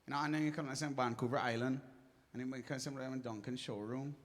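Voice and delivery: rushed mock Barbados accent. Joking to the crowd about Barbados, mock Barbados accent. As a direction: put on a slurred-together Barbados accent. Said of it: "A Barbados accent sounds like".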